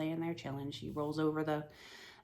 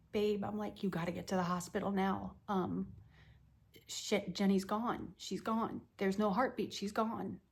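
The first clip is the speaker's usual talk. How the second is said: higher, urgent and shaken; distraught call; 4 semitones higher than usual. Retold or imitated. Telling her husband their baby is gone, distraught and higher. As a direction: plead down the phone, barely holding it together. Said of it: "I call my husband and I'm like".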